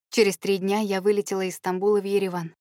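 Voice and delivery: ordinary delivery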